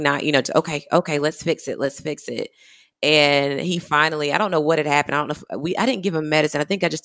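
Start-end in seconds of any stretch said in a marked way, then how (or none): 0.6-2.5 calming reassurance. Retold or imitated. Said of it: "not crying".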